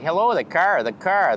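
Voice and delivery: mock Chicago greeting with a firm R; Chicago accent. Comic tracing wind to Chicago, imitated Chicago accent on "car". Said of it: "blows all the way to Chicago".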